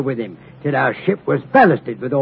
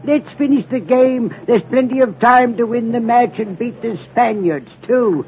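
calm and cool; 7 semitones higher than usual. Retold or imitated. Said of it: "calm and cool like".

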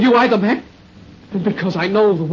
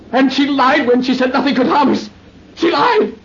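raving; 3 semitones higher than usual. Acted. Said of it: "He's raving".

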